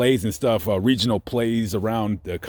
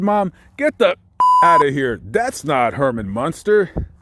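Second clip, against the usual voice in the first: loud disbelief; 3 semitones higher, 4 dB louder than usual. Retold or imitated. Disbelieving retort to mom.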